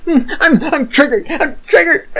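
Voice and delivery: very high-pitched fake meltdown; mock hysteria. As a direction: play absurdly, squeakily triggered. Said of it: "do a triggly puff".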